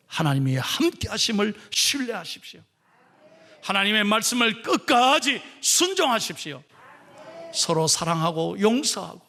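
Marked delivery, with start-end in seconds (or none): none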